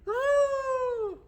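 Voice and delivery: very high, long hooted trumpet call; elephant trumpet. Shown as a demonstration. Teacher showing elephants trumpeting, high hooting call. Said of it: "All right, elephants, remember they".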